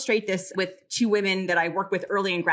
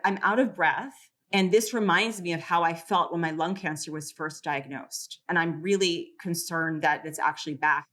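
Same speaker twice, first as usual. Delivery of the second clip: worried. Retold or imitated. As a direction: retell her fear that the cancer is back. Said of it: "the second one was terrified".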